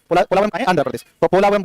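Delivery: drawn out syllable by syllable; slow teaching drill. Shown as a demonstration. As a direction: spell it out slowly for the class. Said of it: "बोलो पोलावरम".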